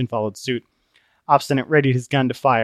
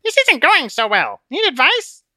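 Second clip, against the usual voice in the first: tiny high nervous voice; cowering Conscience; 5 dB louder than usual. Acted. Conscience whispering nervously to Christian. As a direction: squeak it timidly in his ear.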